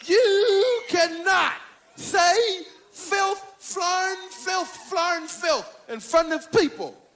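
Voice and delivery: hammed-up stern lecture, each word set apart; Bill Cosby. Cosby scolding the comic for swearing, pompous impersonation. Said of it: "told me I was too dirty".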